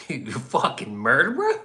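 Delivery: mock angry band. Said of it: "And they're like".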